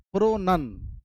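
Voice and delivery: प्रोनन with a short vowel, as pro-nun; "nun", not "noun". Shown as a demonstration. Teacher isolating the syllable students miss, प्रोनन as pro-nun. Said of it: "not noun".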